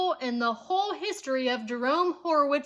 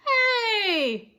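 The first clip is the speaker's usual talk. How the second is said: higher, louder call from the stands; fan shout; 8 semitones higher, 5 dB louder than usual. A narrator's reading. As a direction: yell across the bleachers. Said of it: "shouted a fan in the bleachers".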